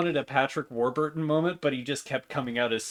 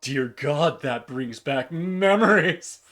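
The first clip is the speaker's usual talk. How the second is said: sexy Minotaur voice; 3 semitones lower than usual. Acted. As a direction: purr it like a vain showman. Morty character voice.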